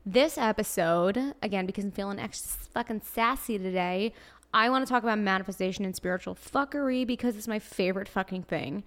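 put-on Brooklyn accent, sassy. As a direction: lean into a New York Brooklyn accent. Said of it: "Today I have a Brooklyn accent".

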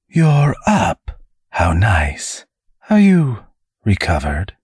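high, sneering demon voice; a demon taunts the wounded angel; mocking demon.

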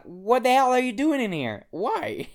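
half-laughing what-the-hell yell; incredulous outburst. Retold or imitated. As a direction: blurt it out in total shock. His baffled reaction to the couple.

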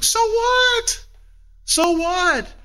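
high, scoffing so what; scornful high retort; dismissive so what. Real, not acted. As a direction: toss it off with a scoff. Dismissing the worry.

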